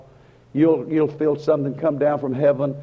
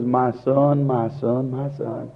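sweet loving voice; slower than usual. Retold or imitated. God calling his straying child, sweet and loving. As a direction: coax gently, fading each time. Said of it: "that sweet, loving voice of God".

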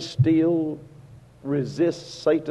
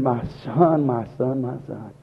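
tender father; 2 semitones lower, 4 dB quieter than usual. Retold or imitated. Father embracing returning son.

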